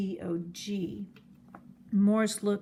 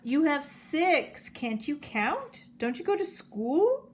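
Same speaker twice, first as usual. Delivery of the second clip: amused teasing; 7 semitones higher, 3 dB louder than usual. A narrator's reading. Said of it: "The man laughed".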